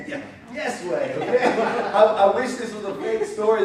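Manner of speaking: loud laugh breaking through the words; laughing while talking. Real, not acted. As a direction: laugh out the line in disbelief. Pastor laughing at the memory.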